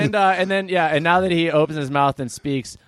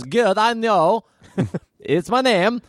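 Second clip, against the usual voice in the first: nervous stranger; 7 semitones higher, slower than usual. Acted. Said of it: "And he goes".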